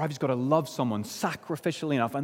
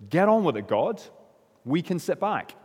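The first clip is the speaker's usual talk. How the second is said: a touch higher and louder, mockingly breezy; complacent mock thought; 5 semitones higher, 4 dB louder than usual. Preacher voicing the congregation's lazy thought, mock-breezy. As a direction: lightly mimic a lazy churchgoer. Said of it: "we might think".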